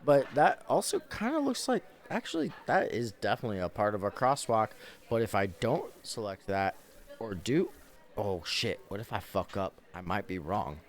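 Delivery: fast, then fading into nervous mumbling; anxious captcha user. Pretend. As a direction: panic over which squares to pick.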